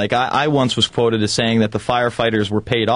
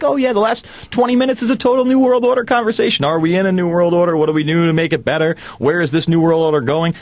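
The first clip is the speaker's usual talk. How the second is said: higher, lightly mocking talk-show host voice; playing the eager interviewer, pitched up; imitating Charlie Rose; 6 semitones higher than usual. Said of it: "and he's like".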